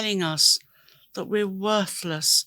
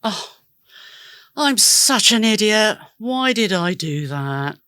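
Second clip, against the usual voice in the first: self-scolding; 4 dB louder than usual. Retold or imitated. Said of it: "Please don't say things like this to yourself".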